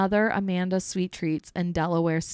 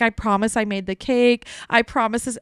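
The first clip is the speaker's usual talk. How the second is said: pleading; 3 semitones higher, 5 dB louder than usual. Retold or imitated. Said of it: "I'm like".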